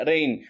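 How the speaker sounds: రెయిన్ said plainly as ren; plain rain. Shown as a demonstration. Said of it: "మామూలుగా". (మామూలుగా రెయిన్)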